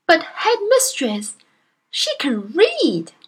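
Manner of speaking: slow, whispered timid appeal; hushed plea. Acted. Timid teacher whispers her plea to the headmistress, slow. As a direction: breathe it out almost afraid.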